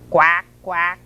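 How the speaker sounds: short, punchy duck quacks; lightly voiced duck. A narrator's reading. Mother Duck complains at the truck, light duck quacks. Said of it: "said Mother Duck".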